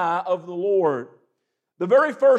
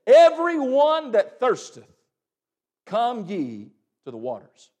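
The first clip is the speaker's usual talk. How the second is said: crying out; 3 dB louder than usual. Acted. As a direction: proclaim it as the Lord's call. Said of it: "The Lord is crying out".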